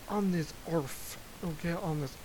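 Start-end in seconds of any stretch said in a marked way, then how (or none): 0.7-1.2 "earth" set apart and emphasized; stress on EARTH. Real, not acted. Musing on existing on this planet, stress on "earth". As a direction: lean on the word "earth". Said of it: "I put the emphasis on earth".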